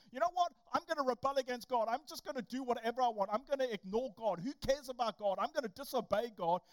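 loud, defiant rebellious voice, fast; mock a rebel who shrugs God off. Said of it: "you thinking".

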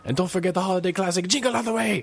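high, fast hyped announcer. Retold or imitated. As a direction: boom it out like a TV promo announcer. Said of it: "a voice would come on and it's like".

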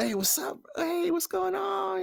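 put-on high, bubbly white girl greeting. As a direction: play a chirpy valley girl. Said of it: "she'll be like".

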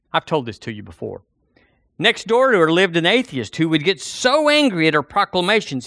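ordinary delivery

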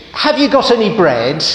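a cheeky duck asking again and again; pestering duck. Acted.

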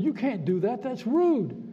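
retold mild outrage; mad pastor. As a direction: imitate an offended preacher telling someone off. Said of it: "made the pastor mad".

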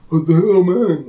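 mock angry yell at the driver; indignant shout from a passing car; retold yell. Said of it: "he's like".

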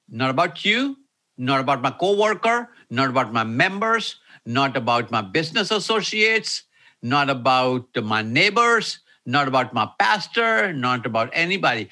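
each "not about" hit in turn with short pauses; emphatic list. Shown as a demonstration. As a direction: pound out every "not about". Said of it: "I'll stop for emphasis".

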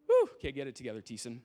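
fighting tears. Real, not acted. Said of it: "I might get emotional".

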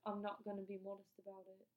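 light mock British accent; slightly put-on British accent. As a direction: quote him with a hint of a British accent. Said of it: "I'm giving him a British accent".

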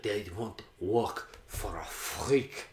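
slow, deliberate gangster imitation; lightly voiced mobster. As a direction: play a defiant mobster, word by word. Acting out the Russian mobster.

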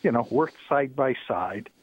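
phone line caller; thin, filtered telephone voice; over the phone. Real, not acted. Caller on radio show.

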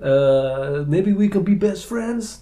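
a hint of a Dutch accent. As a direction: play an eager Dutch fan. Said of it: "that was a Dutch accent".

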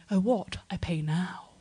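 lightly voiced bewildered Oxford student; clueless posh student. Oxford student getting on a bus, bewildered. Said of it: "students getting on buses going".

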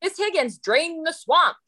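put-on high, innocent child's voice; little kid voice. Young student parroting a political ad to his teacher, childlike. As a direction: chirp it like a small student repeating an ad.

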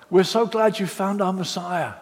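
hearty mock welcome; mock welcoming Judaizers. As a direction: greet them like overeager hosts. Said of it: "they said to these Galatians".

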